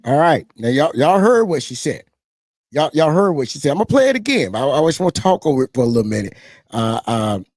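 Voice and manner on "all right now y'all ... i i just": raised, loud, eager; excited. Real, not acted. Streamer urging viewers to hear the clip, excited. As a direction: hype the crowd up. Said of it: "I'm a little excited".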